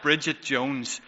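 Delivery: high, loud, exasperated self-scolding; mock self-scolding. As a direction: berate yourself in a mock rant. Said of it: "she was like".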